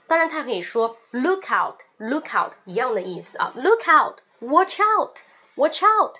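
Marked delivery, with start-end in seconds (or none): 3.5-6.2 slow, much louder, higher warning; urgent shout. Shown as a demonstration. Urgent warning to someone in danger, shout. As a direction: shout it in an emergency. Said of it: "发生在非常紧急的一个情况下".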